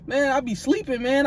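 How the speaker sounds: high mock roommate voice, easing down; imitated laughing roommate. Roommate explaining his sleep talking, high imitated voice. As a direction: play the roommate's amused excuse high-pitched. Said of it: "He just start laughing".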